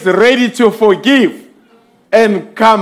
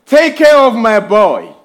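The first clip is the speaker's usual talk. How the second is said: gentle plea, slightly raised; a mother's prayer for her son; praying mother. Retold or imitated. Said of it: "her saying in prayer".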